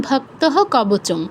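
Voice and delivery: ভক্তঃ ending in a voiced "ho" before কবচম; full-h visarga. Shown as a demonstration. Teacher showing word-by-word reading, ভক্তঃ ending in "ho". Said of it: "যদি আলাদা আলাদা করতাম".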